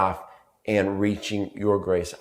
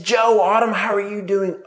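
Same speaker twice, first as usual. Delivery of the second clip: lightly voiced, much higher sweet teacher; gushing teacher greeting; 10 semitones higher, 4 dB louder than usual. Teacher greeting the parents, high gushing voice. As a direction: imitate the chirpy first-grade teacher's high hello. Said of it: "And she said".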